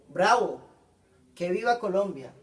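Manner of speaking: loud cheer of Bravo, then an excited call; an emphatic exclamation demo; exclaiming. Shown as a demonstration. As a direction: cheer it like a proud fan.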